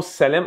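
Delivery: "Salem" as American SAY-lum; anglicized "Salem", stress up front; English pronunciation. Shown as a demonstration. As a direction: say "Salem" with a long AY and weak ending. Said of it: "en anglais qui est Salem".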